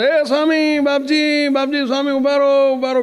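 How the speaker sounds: calling out. Retold or imitated. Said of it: "બૂમ પાડ પડતા".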